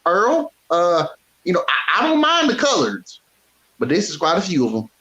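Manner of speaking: low mock country codger voice; old Southern racist. Old fan confiding in Earl, low mock country voice. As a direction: play a prejudiced old fan muttering to Earl.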